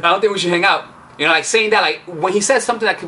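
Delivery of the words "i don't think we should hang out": firm brush-off. Shown as a demonstration. Coach demonstrating a disqualifier line firmly to viewers. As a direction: say it firmly, with emphasis.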